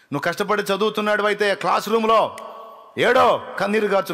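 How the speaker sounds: high, loud urging to weep in prayer; impassioned pulpit cry; loud preaching. Acted. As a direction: call the student to weep before God. Preacher urging students loudly.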